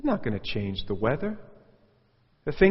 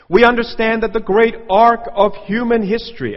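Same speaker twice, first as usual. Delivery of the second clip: higher, much louder orator's voice; mock grand speech; 9 semitones higher, 10 dB louder than usual. Preacher mocking a speech about history, loud pompous declaiming.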